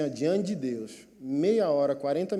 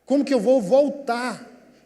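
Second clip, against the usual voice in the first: loud, high, drawn-out protest; upset outcry; 8 semitones higher, 8 dB louder, slower than usual. Retold or imitated. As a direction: wail it in acted dismay, stretching the words. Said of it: "eu fiquei mais chateado".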